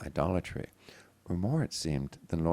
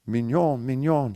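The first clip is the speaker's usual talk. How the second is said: high, loud, frantic calling of his name; panicked cry; 7 semitones higher, 10 dB louder than usual. A narrator's reading. Mother running to her fallen son, crying out in panic. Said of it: "she cried as she ran to him in panic".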